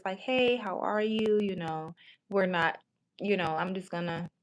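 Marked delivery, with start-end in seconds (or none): 0.2-1.4 slow, easy and friendly; pleasant. Shown as a demonstration. Texting the guy with no pressure, slow and pleasant. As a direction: greet him like nothing's wrong. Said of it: "I talked just like this".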